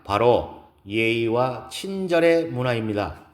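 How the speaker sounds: measured keynote speech with emphatic key words; lightly voiced speaker making each point to an audience; poised woman lecturer. Gives a lecture in story. (차분하고 힘 있는 강연 말투)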